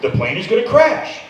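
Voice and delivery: lightly voiced airline pilot on the intercom; mock pilot calmly breaking bad news; pilot announcement. Comedian mocking doctor as a pilot, calm intercom announcement. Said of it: "Don't ever be a pilot".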